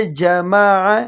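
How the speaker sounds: جمع slowly, each vowel separate; careful جمع; correct pronunciation. Shown as a demonstration. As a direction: pronounce جمع with three distinct vowels. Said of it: "الگ الگ کر کے پڑھنے ہیں".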